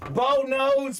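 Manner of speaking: drawn-out hyped name call; hyped announcement. Real, not acted. Host hyping a big pull to viewers, drawn-out shout. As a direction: stretch the name like a ring announcer.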